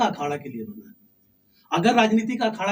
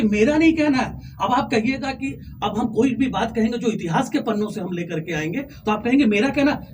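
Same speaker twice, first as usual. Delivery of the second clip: talk-show guest forcefully denying the host's framing; heated denial; 3 semitones higher than usual. Real, not acted. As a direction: push back hard, refusing the claim.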